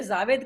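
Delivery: "जावेद" begun with a z sound; mispronounced name. Retold or imitated. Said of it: "जावेद Akhtar अक्सर कहते हैं कि". ("जावेद" में ज की जगह ज़ का उच्चारण)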